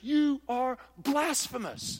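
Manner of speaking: slow, drawn-out scolding voice; lightly voiced affronted churchgoer; mock accusation. One half of the church scolding the meat-eaters, slow. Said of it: "this half over here is".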